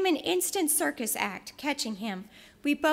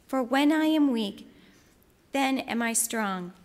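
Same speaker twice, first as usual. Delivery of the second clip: scripture reading. Acted. Preacher reads Second Corinthians to the congregation, solemn and measured. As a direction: proclaim the verses with weight.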